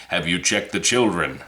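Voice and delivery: creepy caller asking in a mock British accent; low, hushed British phone voice. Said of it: "That was my British accent".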